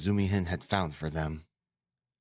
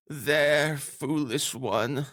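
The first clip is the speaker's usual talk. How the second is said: self-scolding cry; 9 semitones higher, much slower than usual. Acted. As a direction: exclaim at your own silliness, drawn out. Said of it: "cried out to myself".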